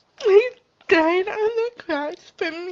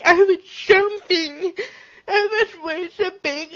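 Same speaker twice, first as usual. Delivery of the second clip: crying. Real, not acted.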